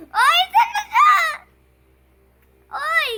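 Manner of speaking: high slow laughing Hoy, saan ka?; laughing call-out. Real, not acted. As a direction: call after him laughing. Laughing shout searching player. (tawang sigaw)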